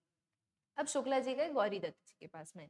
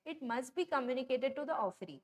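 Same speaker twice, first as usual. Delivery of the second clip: very slow, word by word, like reading a law to copy down; slow dictation; much slower than usual. Shown as a demonstration. Teacher dictating the contract rule to students, very slow and deliberate. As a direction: spell out each word of the rule. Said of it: "third point ने क्या बोला हमें".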